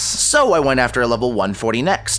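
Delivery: even, lightly told voice-over; walk the viewer through it like a recap; recap narration. Acted. Creator narrating his progress to viewers, calm voice-over.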